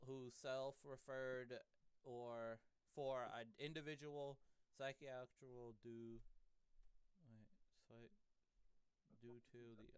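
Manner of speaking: reading aloud haltingly. Real, not acted. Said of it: "I don't know what this".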